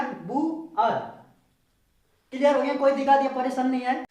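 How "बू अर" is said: "बू अर" as long "boo", then "ar"; syllable-by-syllable pronunciation. Shown as a demonstration. Teacher assembling the word for learners, careful pronunciation demo. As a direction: sound out "बू अर" in two parts. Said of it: "शब्द क्या बन गया?".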